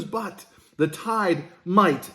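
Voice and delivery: slow, leaning hard on might; stress on might. Real, not acted. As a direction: drag out the word might and hit it. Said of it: "and I emphasize the word might".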